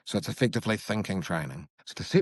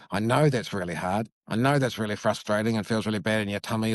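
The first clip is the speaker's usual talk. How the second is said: validating parent. Shown as a demonstration. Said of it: "By simply saying".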